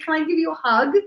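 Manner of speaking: retold gentle asking; tender offer. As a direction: offer comfort to someone tearful. Offering comfort to crying woman.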